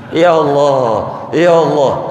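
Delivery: moaning in pain. Retold or imitated. Toothache sufferer moaning.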